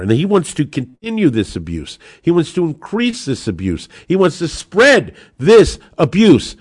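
rising rally-speech outrage; building indignation. Real, not acted. Host builds rhetorical attack on Biden.

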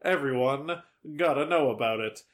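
spaced out, pause after EVERYONE; measured repeat. Real, not acted. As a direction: say EVERYONE, pause, then finish deliberately. Repeats the line slower for emphasis.

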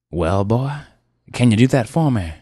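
put-on steamroll the young man; bossy car dealer. Car dealer Rivers telling the ad man to shut up, overbearing.

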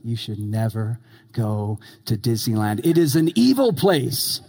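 low, grave warning, then firm; dead serious. Retold or imitated. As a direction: warn him solemnly about Disneyland. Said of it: "and he's dead serious".

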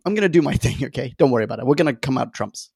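lightly voiced quirky Doctor; breezy, carefree Doctor voice; quirky Doctor impression. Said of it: "the Troughton-esque".

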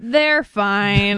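dismissive breezy catchphrase. Retold or imitated. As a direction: brush it off lightly. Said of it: "she says this one thing".

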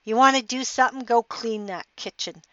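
wife daring her husband to act, cynical and fast. Retold or imitated. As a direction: challenge him with scorn. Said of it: "She looked at me cynically".

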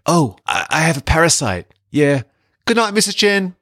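a sheepish rising goodbye; a hint of Tom Hardy's awkward Eddie; Eddie Brock impression. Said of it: "Eddie Brock saying to Missus Chen".

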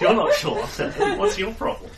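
high squeaky laughing protest; outraged through laughter; laughing indignation. Acted. Mock-indignant laughing retort.

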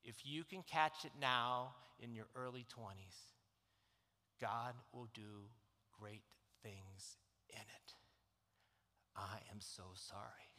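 low, soft, choked-up words; tearful apology. Real, not acted. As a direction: hold back tears as you apologise. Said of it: "I said".

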